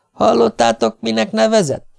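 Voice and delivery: felindult, magasra szökő kérdés; agitated, high-pitched indignant question. A narrator's reading. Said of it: "kérdezte felindultan Gerton". (felindultan, magas hangon)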